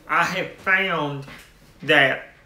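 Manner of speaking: talking around a jawbreaker; mouth full. Real, not acted. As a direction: speak with candy in your mouth. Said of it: "I had jawbreakers in my mouth".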